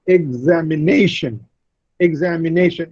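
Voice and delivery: "examination" said ex-am-i-NA-tion; stress on NA. Shown as a demonstration. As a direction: lean on the fourth syllable of "examination". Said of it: "Ne receives the primary stress".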